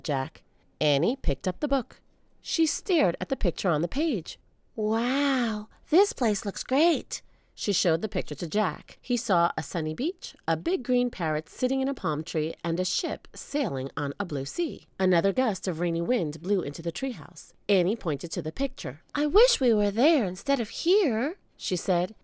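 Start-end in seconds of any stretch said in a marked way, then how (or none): 4.7-7.2 put-on high, slow, awed little girl. Annie voiced by narrator. 19.1-21.4 put-on girl voice. Annie voiced by narrator.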